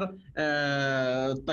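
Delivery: normal talking voice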